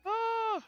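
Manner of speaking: soft, high "ah" of alarm; small high yelp at the game; high-pitched cry. Real, not acted. Reacting to getting hit in game.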